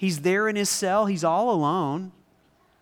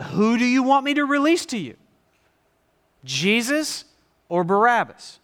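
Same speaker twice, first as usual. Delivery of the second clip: Pilate asking; 4 semitones higher, 4 dB louder than usual. Acted. Preacher voicing Pilate to crowd.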